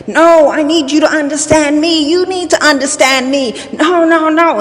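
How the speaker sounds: high, insistent reenacted quarrel; hot-headed arguing. Mother and son each fighting to be understood, hot-headed. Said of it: "we were hot-headed".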